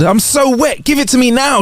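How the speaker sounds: high-pitched pretend scream; insistent high wail, little added volume; mock screaming. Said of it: "She kept screaming at me".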